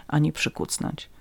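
plain reading voice

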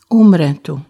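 plain reading voice

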